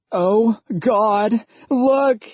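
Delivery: frightened high gasp. A narrator's reading. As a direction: blurt it out in shock. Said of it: "gasped Laura".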